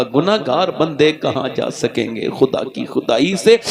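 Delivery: a sinful woman begging her Lord through tears, low and tearful; tearful prayer. Acted. The woman weeps alone behind a shut door, low broken plea. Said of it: "रोने लगी, कहने लगी".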